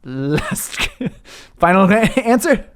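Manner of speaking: rising, teasing quiz host; mock game-show host. Game master mocks Who Wants to Be a Millionaire host, rising.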